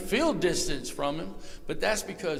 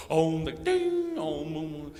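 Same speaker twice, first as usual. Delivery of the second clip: imitating yoga chant; much slower than usual. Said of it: "they were all the".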